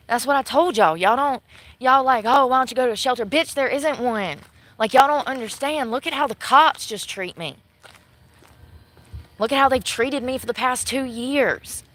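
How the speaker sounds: real exasperated venting; heated rant. Real, not acted. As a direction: drive it home, fed up. Heated plea to viewers.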